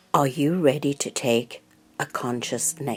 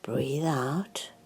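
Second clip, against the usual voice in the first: guided meditation; 5 dB quieter than usual. Real, not acted. Guide settling listeners into mindful breathing, calm guided meditation. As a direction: lead them calmly and unhurriedly, leaving room to breathe.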